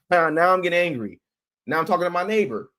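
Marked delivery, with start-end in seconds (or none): 0.1-1.2 a mild build to anger; getting angry. Shown as a demonstration. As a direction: let the anger rise on "angry".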